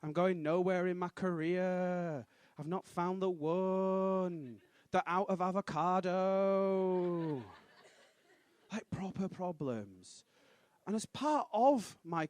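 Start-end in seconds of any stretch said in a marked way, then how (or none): 0.0-7.4 mock whiny self-pity. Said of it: "made-up problems".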